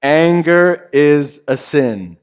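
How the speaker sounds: slow, stress on Anger; slow emphatic repeat. Shown as a demonstration. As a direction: repeat "Anger is a sin" slowly, pressing "Anger". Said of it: "Wanna try that?".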